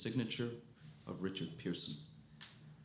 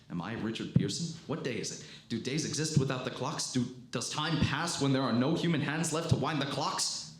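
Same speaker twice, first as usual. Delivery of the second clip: questions climbing higher and louder into anguish; spiralling toward breakdown; rising despair; 6 semitones higher, 5 dB louder than usual. Acted. Survivor writing alone asks whether time exists, mounting anguish.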